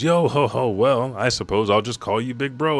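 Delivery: laughing. Retold or imitated. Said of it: "And he laughs".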